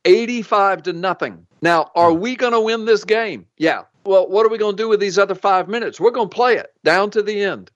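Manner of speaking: preaching. Acted. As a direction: preach it to the congregation. Preaches with a football analogy.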